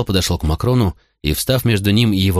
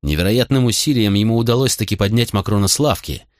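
plain reading voice

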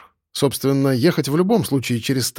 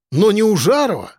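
whiny protest; 7 semitones higher, 3 dB louder than usual. Acted. Man whines back at boss.

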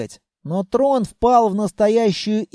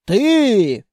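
accusing shout; 3 semitones higher, 4 dB louder than usual. Acted. Grandmother points accusingly at throne.

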